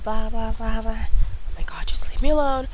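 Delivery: breathy, exasperated hiss at the screen; fed up, pushing the prompt away. Real, not acted. Annoyed at Wi-Fi login screen, hissed exasperation.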